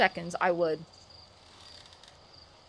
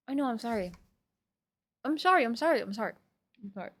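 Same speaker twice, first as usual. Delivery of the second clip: much softer repeated apology; quiet apology; 2 semitones lower, 8 dB quieter, much faster than usual. Real, not acted. Streamer apologizing to chat for yelling, quiet. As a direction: back off, hushed and sheepish. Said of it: "I'll whisper".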